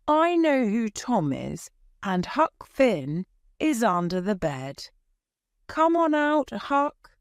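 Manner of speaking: a hint of a no-nonsense aunt calling Huck out; Aunt Polly, knowing. A narrator's reading.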